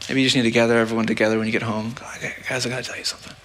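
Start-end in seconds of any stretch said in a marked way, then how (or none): 2.2-3.3 soft, hesitant opening to the family; hushed confession. Pretend. A person gathering family to confess, speaking softly. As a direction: quietly work up to a confession.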